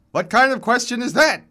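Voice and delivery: high, loud, incredulous complaint; vigorous old man, irritably affronted; reedy old man. A narrator's reading. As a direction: scoff at the question in an accented voice. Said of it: "His voice is reedy but vigorous".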